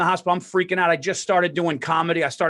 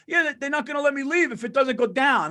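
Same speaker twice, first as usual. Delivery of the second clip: put-on old man; 8 semitones higher than usual.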